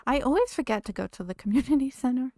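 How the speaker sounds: laughing through the words. Real, not acted. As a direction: giggle mid-sentence. Laughing while admitting forgetting.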